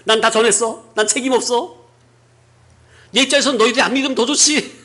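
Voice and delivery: high, fast, offhand brush-off; careless Jonah. Acted. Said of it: "하면서 대충 전한 건데".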